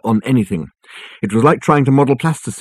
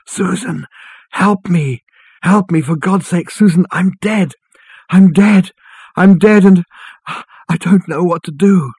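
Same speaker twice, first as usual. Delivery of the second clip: high-pitched, pleading wail; desperate wail; 8 semitones higher, 3 dB louder, slower than usual. A narrator's reading. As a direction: cry for help like a distant wail on the wind. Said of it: "a hoarse and distant wail on the wind".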